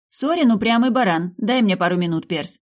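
loud, high shout. A narrator's reading. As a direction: keep yelling through the door. Keeps shouting through the door.

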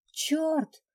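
high, loud battle yell; urgent shout. Acted.

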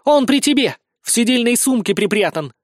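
shrieking. A narrator's reading. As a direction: shriek it so everyone hears. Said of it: "дальше взвизгивает".

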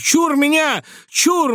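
put-on old man ringing out like an opera singer; operatic cry in the manner of a famous opera bass. A narrator's reading. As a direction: wail it like a tragic opera tsar. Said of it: "с интонациями знаменитого оперного баса в голосе".

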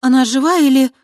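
anxious. Acted. Anxious question about Krista.

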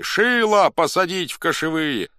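high, loud demand; crowd shout. A narrator's reading. Supporters push their candidate for chief, shouting. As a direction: yell for your man. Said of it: "кричали одни".

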